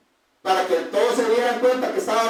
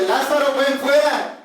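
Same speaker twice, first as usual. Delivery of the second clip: louder, higher call into the tomb; a raised command; 4 semitones higher, 4 dB louder than usual. Acted. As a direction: call him out of the grave. Jesus calls Lazarus from tomb.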